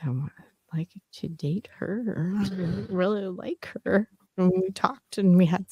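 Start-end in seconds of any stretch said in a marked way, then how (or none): 0.1-4.1 soft, hushed, secretive; hushed confession. Retold or imitated. Stepdad confiding his crush, hushed and soft. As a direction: let it slip out like a secret.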